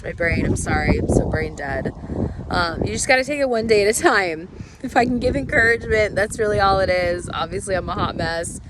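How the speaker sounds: a frog in the throat, hoarse from being sick; rough, hoarse voice from a cold. Real, not acted. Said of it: "Still sound like I got a frog in my throat".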